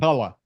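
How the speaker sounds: "Challah" with a throaty Hebrew ch; Israeli pronunciation. Shown as a demonstration. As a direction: say "Challah" the Hebrew way, rasped first sound. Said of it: "I'm getting there with my Israeli".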